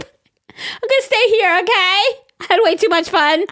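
high, slow little cartoon voice. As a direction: play the voice as a tiny cartoon. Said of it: "cartoon character".

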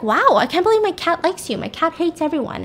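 high-pitched retold astonishment; lightly acted disbelief; amazed. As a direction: pitch it up in mock wonder.

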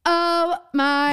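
high, thrilled exclamation; excited. Real, not acted. Co-host reacting to concert tickets, excited. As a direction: gush at the great news.

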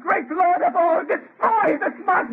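anguished prayer. Acted. Prayer for monster's destruction.

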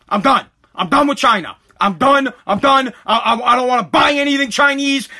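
real angry rant in punchy bursts; fed up, cutting them off for good; pissed off. Real, not acted. Creator ranting about China after ban, pissed off. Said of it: "I'm pissed".

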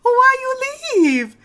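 high, loud, slow pleading whine; hammed-up wail from the office; mock whiny coworkers. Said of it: "people are like".

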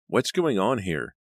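loud, slow, stern demand; angry demand. Acted. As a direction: boss catches them mid-struggle. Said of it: "an angry voice demanded".

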